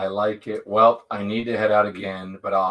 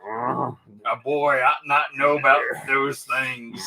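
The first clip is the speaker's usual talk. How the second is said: Sling Blade impression; 3 dB quieter, slower than usual. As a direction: drag it out like Karl from Sling Blade. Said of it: "Billy Bob was so good".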